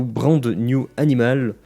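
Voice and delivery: English title in a French accent. Real, not acted. Anime reviewer reading out an English title, French accent. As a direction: say it with a heavy-footed French accent. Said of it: "vive mon accent anglais quand même".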